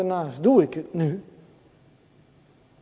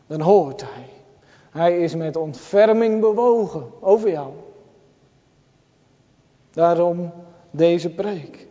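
usual speaking voice

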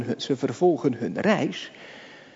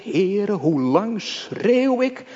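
lamenting cry; 6 semitones higher, 3 dB louder than usual. Retold or imitated. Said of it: "Hij spreekt het in hoofdstuk één uit".

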